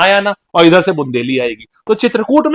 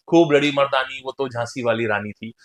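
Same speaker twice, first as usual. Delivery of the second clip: lower, rhythmic verse; poem recitation; 5 semitones lower, 4 dB quieter than usual. Shown as a demonstration. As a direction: recite the remembered line in metre. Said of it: "बचपन में हम लोगों ने poem पढ़ी थी". (लय में, नीचे सुर में कविता)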